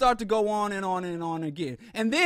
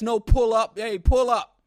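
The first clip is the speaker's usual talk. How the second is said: mock threat; 3 semitones higher, 8 dB louder, slower than usual. Mocking internet threats.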